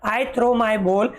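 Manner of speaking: slow, even word by word reading; slow teacher reading; slow read-aloud. Shown as a demonstration. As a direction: model the line slowly for the class. Slow model reading for kids.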